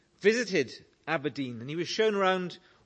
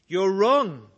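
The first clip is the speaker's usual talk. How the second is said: put-on old lady's protest; 3 semitones higher, 8 dB louder than usual. Old lady objects.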